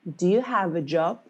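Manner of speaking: weak "Do", emphasis on "have" and "job"; stress on HAVE, JOB. Shown as a demonstration. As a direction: skim over "Do", lean on "have" and "job". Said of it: "this is the emphasis that we put".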